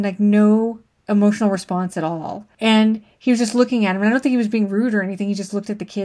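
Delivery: normal talking voice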